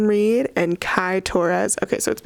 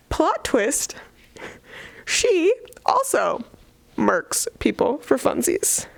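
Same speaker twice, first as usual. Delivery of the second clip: whisper; 5 semitones higher, slower than usual. Real, not acted. Dramatic plot twist reveal.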